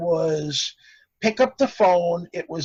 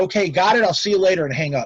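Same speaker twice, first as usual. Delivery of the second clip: normal talking voice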